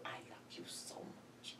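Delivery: whispered, slow, barely voiced; a son whispering a final goodbye to his mother; soft final goodbye. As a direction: breathe it like a last farewell. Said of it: "the way he said it, it was like a final goodbye".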